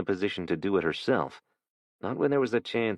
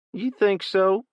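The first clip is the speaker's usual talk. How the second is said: put-on sneering teen thug; 13 semitones higher, 5 dB louder, slower than usual.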